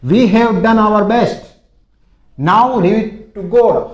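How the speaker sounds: slow dictation; slow model sentence. Shown as a demonstration. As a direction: stretch each word for learners. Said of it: "इसको कैसे बोलते देखो".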